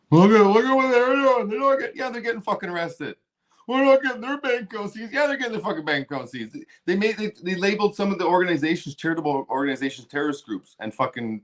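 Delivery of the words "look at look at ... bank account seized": heated outburst at the audience; angry rant. Real, not acted. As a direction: rail against it, voice cracking high. Furious rant about arrests.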